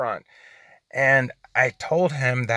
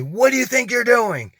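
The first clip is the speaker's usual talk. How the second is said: higher, indignant retold yell; mock yell; 9 semitones higher, 3 dB louder than usual. Driver retelling how a guy yelled at him at the car, mock yell. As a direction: imitate an angry man yelling, pitched up high. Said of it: "he just yells at me".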